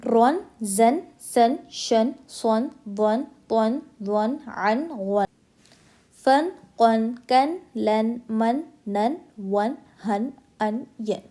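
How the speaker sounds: "सन, शन" drilled with clear final n; clear izhar. Shown as a demonstration. Teacher modelling for practice, clear izhar n on each syllable. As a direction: recite each like "कन, लन", short vowel, n fully sounded. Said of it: "मैं जैसे पढ़ रही हूँ ऐसे".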